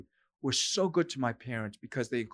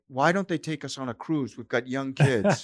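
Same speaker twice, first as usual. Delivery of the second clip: mock complaining; 5 dB louder than usual. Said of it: "I did think".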